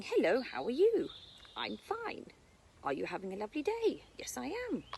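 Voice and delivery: teacher voicing birds greeting each other, mildly sing-song; bird chatter. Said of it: "and they're saying".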